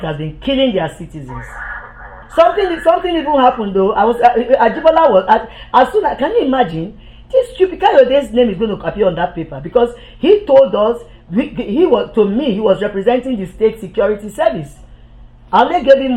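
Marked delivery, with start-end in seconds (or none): 5.3-11.0 laughing. Real, not acted. Laughing through his account of Kayode.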